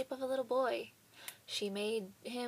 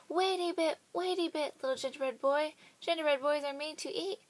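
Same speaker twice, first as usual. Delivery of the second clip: calling out; 5 semitones higher than usual. Acted. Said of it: "they called out".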